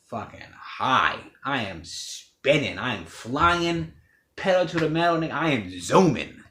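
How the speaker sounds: loud, slow and rising, carried away; stretching out every word of the high; hyped-up high. Retold or imitated. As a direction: ride the rush, pedal to the metal. Describing being high on opioids.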